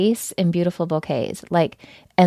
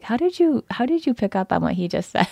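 amazed disbelief; 4 semitones higher than usual. Retold or imitated. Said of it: "And I was like".

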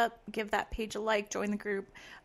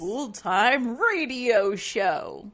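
put-on mid-Atlantic accent; 5 dB louder, slower than usual. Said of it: "I can't do a mid-Atlantic accent".

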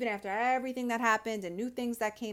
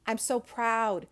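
proud, a bit louder; slower than usual. Real, not acted.

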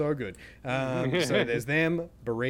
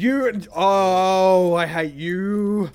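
mock hatred; 6 semitones higher, 13 dB louder, much slower than usual. Mock rage continues.

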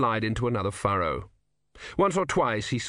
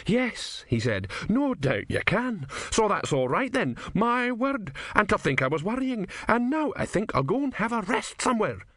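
put-on higher, tired sarcastic old man; weary old philosopher; 10 semitones higher than usual. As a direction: say it as if giving up, bitterly. Didactylos sags.

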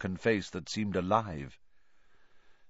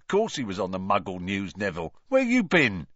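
Stan's voice. Acted. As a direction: tease him like a cheeky bus conductor. Stan teasing on the bus.

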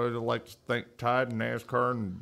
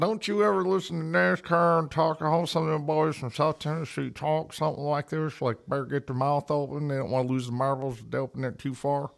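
mumbled Southern NASCAR talk, slightly raised pitch; Southern accent; 4 semitones higher than usual. Shown as a demonstration. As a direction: put on a mush-mouthed Southern accent. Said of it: "Give me your best fucking Southern".

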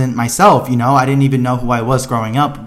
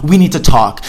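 pissed; 3 semitones higher, 4 dB louder than usual. Retold or imitated. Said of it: "I was, like, pissed".

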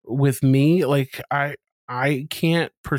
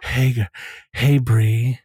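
butch voice; 2 semitones lower, 4 dB louder, slower than usual. Pretend. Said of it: "Let me see if I can sound butch".

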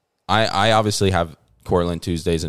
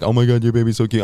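lightly mocking a cooing stranger, a bit higher; gushing lady; 4 semitones higher, 4 dB louder than usual. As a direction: coo at the baby like a nosy shopper.

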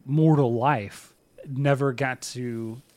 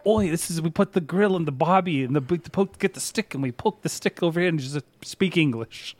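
mock Australian accent; 4 semitones higher than usual. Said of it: "with an Australian accent and then getting mad about it".

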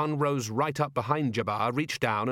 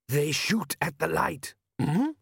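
slow, higher desert-man voice; measured warning in a raised character voice; Jabbar; 6 semitones higher, slower than usual. A narrator's reading. Desert man warning Vimes on the ground, slow raised voice.

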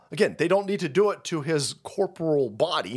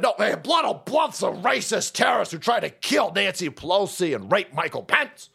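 mock outraged newscaster; 2 semitones higher than usual. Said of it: "and like".

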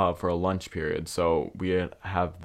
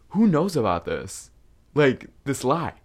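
1 alarmed question; 6 semitones higher, 4 dB louder than usual. Retold or imitated. Demanding answers from friend.

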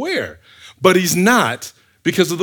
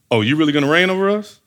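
quick, doubting question from the brothers; skeptical challenge; faster than usual. Acted. Brothers answering Joseph's dream, mildly scornful challenge. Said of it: "I feel like that was the inflection in their voice".

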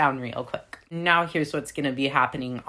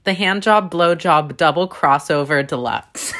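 grand announcement; 5 dB louder than usual. Real, not acted. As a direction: present it like a big title. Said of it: "So I call this".

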